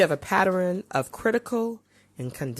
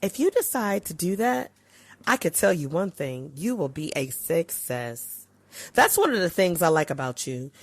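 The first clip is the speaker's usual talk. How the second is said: encouraging. Shown as a demonstration. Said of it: "Encouraging words would sound like this".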